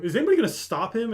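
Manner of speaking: high, quick imitated appeal for help; mock pleading. Elf begging the party to stop him, high mock alarm.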